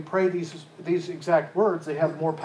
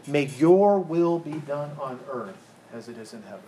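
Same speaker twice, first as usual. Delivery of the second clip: YOUR leaned on, the rest falling away; stress on YOUR. Shown as a demonstration. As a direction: put the weight on "your". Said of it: "It's a focus on him".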